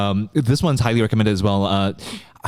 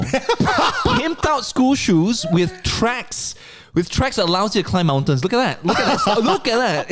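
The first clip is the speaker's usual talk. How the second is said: high, laughing hype over the shoes; laughing excitedly; 9 semitones higher than usual. Real, not acted. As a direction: crack up while showing them off.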